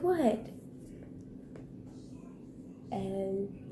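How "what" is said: a high, startled "What?" from the mom. Retold or imitated. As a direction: mimic mom's shocked question, pitched up. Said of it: "She's like".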